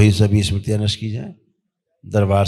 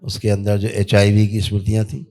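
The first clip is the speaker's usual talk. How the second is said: steady, level ritual decree; ritual incantation; 2 semitones lower than usual. Real, not acted. Healer commanding spirits on a patient's behalf, intoned ritual. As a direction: intone evenly like a healing command.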